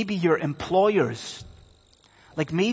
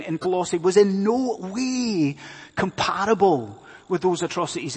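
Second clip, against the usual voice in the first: emphatic, raised sermon voice; insistent pulpit delivery, pitched up; impassioned preaching; 6 semitones higher, 5 dB louder than usual. Real, not acted. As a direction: preach it with weight on key words. Preaches at full force.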